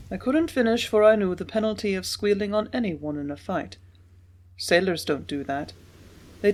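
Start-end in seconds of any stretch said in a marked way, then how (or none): none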